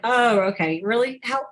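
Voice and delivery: mock-skeptical "Oh, okay. Really? How?" with a doubting rise on "Really"; sarcastic disbelief. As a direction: scoff at the excuse, half-joking. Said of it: "I didn't say it like that".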